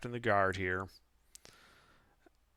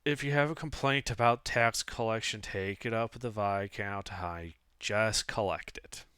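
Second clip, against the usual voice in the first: bored voice. Acted. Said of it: "The tax collector in his bored vo-, voice is like".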